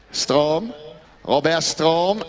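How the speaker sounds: put-on French accent. Commentator names player Strom, mock French accent. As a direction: say the name with playful French pronunciation. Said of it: "in my best French accent".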